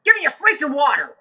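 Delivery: high, loud, fed-up shout at the waiter; exasperated angry yell. Retold or imitated. Rock star yelling at a clueless waiter, loud and exasperated. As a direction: blow up, half laughing, half furious. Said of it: "And Lou goes".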